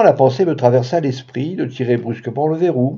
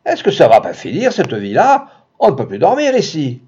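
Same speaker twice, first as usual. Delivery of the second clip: called down; 4 semitones higher, 3 dB louder than usual. Acted. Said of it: "une voix lançait par-dessus la rampe".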